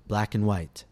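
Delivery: "and" said as a quick n, black 'n white; reduced and. Shown as a demonstration. Teacher gives a model phrase to repeat, black 'n white. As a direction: slur "and" to just n. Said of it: "listen and repeat ... the reduced form n".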